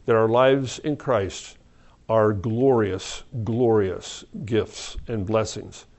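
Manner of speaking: earnest closing prayer to God. Acted. Closes the service in prayer.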